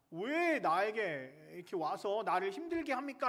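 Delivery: drawn-out mock cry of grievance; half-shouted protest of the possessed man; imitated demon's cry. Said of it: "라고 하면서 소리를 지릅니다".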